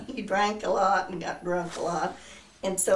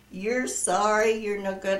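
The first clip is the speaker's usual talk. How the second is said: mad scolding. Retold or imitated. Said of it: "I was so mad".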